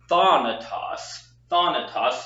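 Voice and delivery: THA-natos, open "ah" in the first syllable; teacher's demo stressing THA in "thanatos". Shown as a demonstration. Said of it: "the emphasis on the first syllable".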